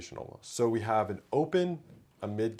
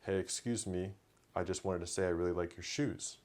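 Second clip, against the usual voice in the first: calm tone; 5 dB quieter than usual. Shown as a demonstration. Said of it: "an example of an open would be".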